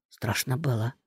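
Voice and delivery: softly into her ear; a hushed confession; whispered. A narrator's reading. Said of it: "а на ухо шепнул".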